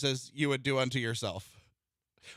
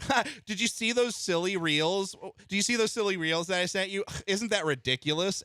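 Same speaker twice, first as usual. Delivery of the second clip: imitating wife; 6 semitones higher than usual. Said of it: "she may even do a thing where be like".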